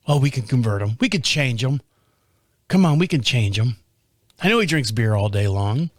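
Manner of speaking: low, mock-pious church folk voice; lightly voiced preachy believers scheming to convert him; a hint of smug congregation members; mocking churchgoers. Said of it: "because I don't go to their church".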